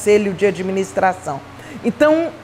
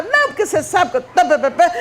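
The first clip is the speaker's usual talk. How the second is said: higher, rushed mock rant; somewhat angry; 7 semitones higher, faster than usual. Speaker mimics herself rambling at the silent directors, somewhat angry. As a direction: rattle off a retold cross tirade. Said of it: "que eu comecei meio brava".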